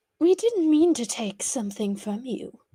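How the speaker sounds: seductive, sultry voice. Voicing a character's line in a scene: seductive voice. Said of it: "It's giving seduction with that voice".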